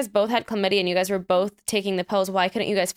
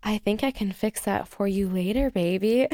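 sexy voice. Pretend. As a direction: purr it like a flirt. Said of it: "my sexy zone".

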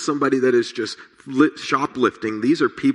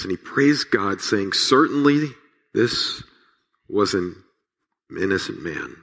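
measured, solemn reading of the passage aloud; scripture reading. Acted. Pastor reading Luke to the congregation, solemn and measured. Pastor reads Luke's crucifixion account.

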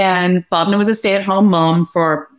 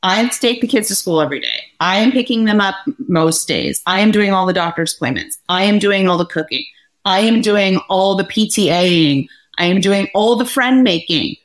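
mock indignant listing; 2 semitones higher than usual. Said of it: "I was like".

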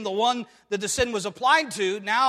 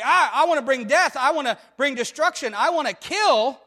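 a touch of mock menace, a bit louder; imitating a destroyer; 4 semitones higher, 5 dB louder than usual. Preacher voicing a sinner eager to kill, mock menace. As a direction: play the one who craves destruction, lightly. Voicing a heart that wants death.

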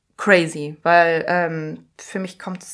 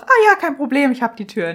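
high, loud opening that drops to normal; breezy, obliging; 4 semitones higher, 5 dB louder than usual. Retold or imitated. Patient laughs off a slammed door, breezy and obliging. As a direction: brightly let it go, no harm done. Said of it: "ich lach noch und sag".

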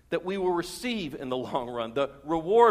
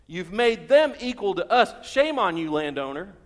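workers shaming the landowner, indignant; indignant scolding; 4 dB louder than usual. Acted.

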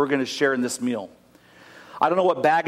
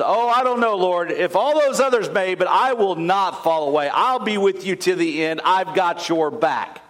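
higher and brash, Peter bragging to Jesus; cocky boast; 4 semitones higher than usual. Acted. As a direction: puff up like the tough guy who never falls. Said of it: "Mister Confidence, Mister Tough Guy".

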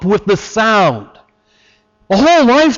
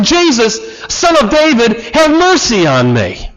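higher, insistent mild shout; shouted plea; 3 semitones higher than usual. Retold or imitated. Blind beggar persists after being hushed, retold shout. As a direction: call out more urgently, pitched up. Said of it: "But he shouted all the more".

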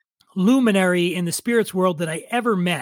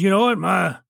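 Kentucky drawl; 3 semitones higher, faster than usual. Retold or imitated. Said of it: "he was the one that says".

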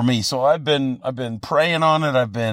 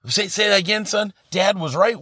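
mock disbelief; 5 semitones higher than usual. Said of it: "I wanted to say".

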